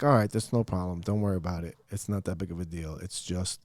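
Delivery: gentle dad calming his daughter; calm reassurance. Retold or imitated. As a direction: soothe her, no big deal. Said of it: "and I'm like".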